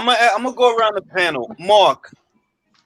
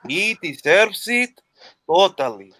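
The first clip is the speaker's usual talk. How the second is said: Mauricio storytelling voice; 3 semitones lower, slower than usual. Retold or imitated. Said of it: "recuerda cómo Mauricio habla".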